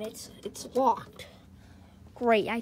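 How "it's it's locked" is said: hushed, slow whisper. Pretend. Boy sneaking through the basement whispers it's locked. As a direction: breathe it out so nobody hears.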